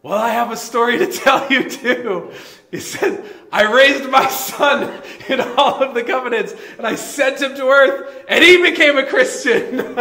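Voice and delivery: high, loud and laughing; mock divine voice laughing; God's punchline. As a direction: deliver God's reply while cracking up. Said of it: "God answers them and says".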